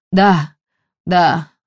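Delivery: ordinary delivery, nothing marked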